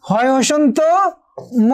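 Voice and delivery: হয় হসন্ত, pause, then a separate ম; broken into parts. Shown as a demonstration. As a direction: split হয় হসন্ত and ম with a clear gap. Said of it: "প্রত্যেকটি যদি আমরা ভেঙে ফেলি".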